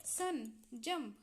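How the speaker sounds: "सन, जंप" as slow, separate examples; short vowel demo. Shown as a demonstration. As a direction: say "सन, जंप" one at a time with a pause. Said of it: "यू का देख लीजिए short sound".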